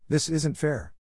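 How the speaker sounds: mildly voiced boy's high protest; a hint of a shrieked outburst. A narrator's reading. Boy protesting to his teacher, lightly shrieked. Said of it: "Harry shrieked".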